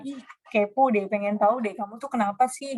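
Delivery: nada ngeledek ala remaja; gaya bahasa remaja. Shown as a demonstration. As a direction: godain seperti teman sebaya. (menirukan gaul anak muda yang kepo)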